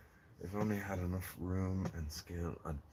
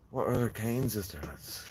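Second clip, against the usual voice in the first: louder, higher call to the lads; 4 semitones higher, 4 dB louder than usual. Real, not acted. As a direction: rouse the viewers, calling out. Rallying the stream chat again.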